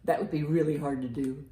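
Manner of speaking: loud, lively picture-book read; reading to children. Acted. Librarian reads a bird book aloud to children, loud and lively. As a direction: read it out big for a room of kids.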